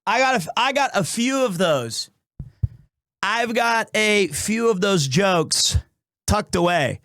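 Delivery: slightly winded speech; out of breath. Real, not acted. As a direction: talk while catching breath. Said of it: "Why am I out of breath?".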